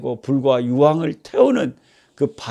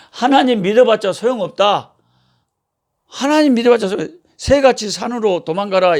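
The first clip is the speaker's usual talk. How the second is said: raised-pitch mock scoffing; mocking taunt; 5 semitones higher than usual. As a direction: imitate scoffers jeering at a believer. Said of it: "이렇게 조롱을 하는 거예요". (비웃는 자를 흉내 낸 조롱조)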